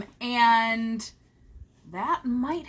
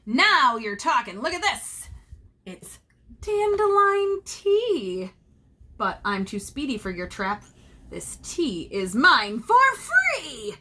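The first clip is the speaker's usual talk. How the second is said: delighted leprechaun; 3 semitones higher, 3 dB louder than usual. Acted.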